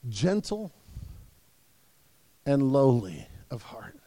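low, soft and tender; gentle, lowly. Acted. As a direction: let the words sink down gently. Jesus's words, said softly and low.

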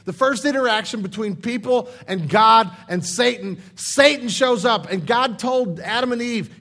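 loud, urgent sermon climax; full-force preaching. Acted. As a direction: preach it out to the back row.

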